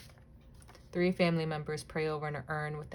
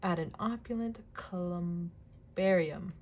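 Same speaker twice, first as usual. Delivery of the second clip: careful reading; slower than usual. Shown as a demonstration. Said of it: "these words".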